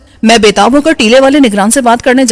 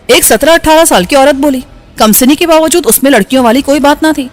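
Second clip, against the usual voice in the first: usual speaking voice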